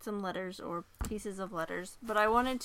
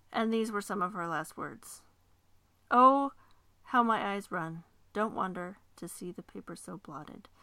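put-on measured dramatic reading of an old letter; reading a letter aloud. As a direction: read it like an eighteenth-century letter, steady and earnest.

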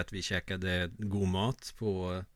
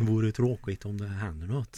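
bus driver in Värmland dialect; broad Värmland accent. Acted. Co-host mimics driver warning passengers, broad Värmland accent. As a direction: imitate a driver's Värmland announcement. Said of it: "han pratar på väldigt bred värmländska".

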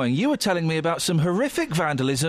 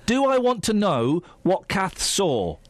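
repeating to voice assistant. Real, not acted. Repeating to Siri slowly.

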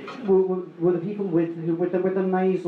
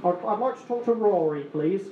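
imitating irate caller; 4 semitones higher than usual. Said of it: "he goes nuclear. He's like".

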